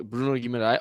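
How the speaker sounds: Spanish-style "Bruno Guimarães" with tapped R; Spanish accent. Shown as a demonstration. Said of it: "like, in a Spanish accent".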